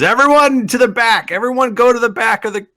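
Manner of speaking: loud, high command; barked guard order. Acted. Guard ordering prisoners to the back, acted shout. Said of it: "he goes".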